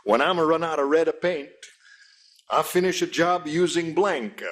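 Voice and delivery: hammed-up Italian accent, Michelangelo style; mock Italian accent. Host as Michelangelo with a comic Italian accent. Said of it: "with your Jewish accent".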